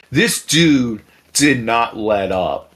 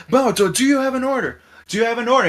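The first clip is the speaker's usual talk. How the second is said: much higher mock scolding voice; imitated fed-up woman; 11 semitones higher, 3 dB louder, faster than usual. Fed-up woman confronting the drunk creep, high mock scolding. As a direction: tell him off as the fed-up woman.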